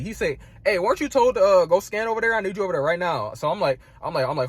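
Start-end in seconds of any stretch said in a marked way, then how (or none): 0.6-3.3 imitating a pushy supervisor, pitch starting high; mildly heated mock order; confrontational supervisor. Supervisor orders him over to scan, confrontational. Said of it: "He came at me crazy".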